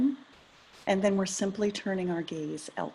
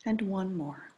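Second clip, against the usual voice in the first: calm, unhurried meditation guidance with long pauses; guided meditation. Acted. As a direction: ease listeners gently into attending to the breath.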